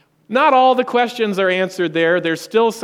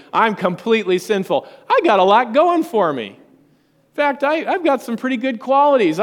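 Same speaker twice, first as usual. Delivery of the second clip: indignant objector; 3 semitones higher than usual. Retold or imitated. Congregant objecting to the preacher, mock indignant. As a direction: play the huffy churchgoer who won't accept it. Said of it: "a lot of people get on edge because they say".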